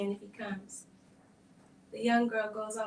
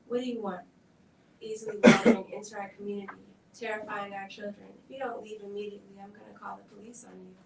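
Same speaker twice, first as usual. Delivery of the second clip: loud, fast angry rant; hostile threat; 7 dB louder, faster than usual. Acted. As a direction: drive the intruder away, rushing. Mother confronts the stranger.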